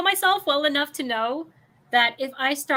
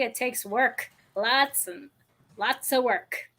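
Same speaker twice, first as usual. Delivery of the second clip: Scottish accent; slower than usual. Shown as a demonstration. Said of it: "in the Scottish Irish accent that I can do".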